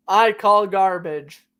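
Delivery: "I call garbage" with Boston r-dropping, "gahbage"; Boston accent. Pretend. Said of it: "I love breaking into my Boston accent".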